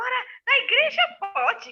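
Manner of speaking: high-pitched, pointed public complaint; imitated indignant, carrying voice; talking loudly. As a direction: say it for everyone around to overhear. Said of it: "e ela fala alto".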